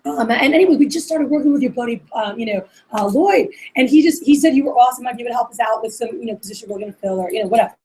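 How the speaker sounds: bright, loose and chatty; friendly casual call. Shown as a demonstration. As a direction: sound like their friend. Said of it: "talk to them like you're their friend".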